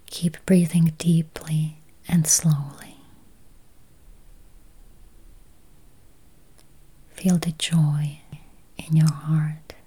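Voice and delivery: slow, spacious meditation voice with long pauses; guided meditation. Acted. Meditation guide easing listeners toward healthy eyes, slow guided-meditation voice. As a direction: guide listeners gently into calm, unhurried.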